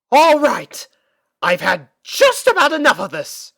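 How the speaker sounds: loud, exasperated outburst; fed up, let it boil over; theatrical frustrated big sister; frustrated growl. Acted. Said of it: "growled in frustration".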